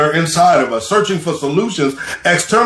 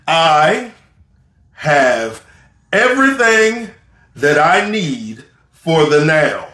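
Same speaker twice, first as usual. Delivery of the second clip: "I am enough" word by word, pausing between each word; slow spaced affirmation; slower than usual. Shown as a demonstration. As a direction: let each word land before the next. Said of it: "here's what I want you to say".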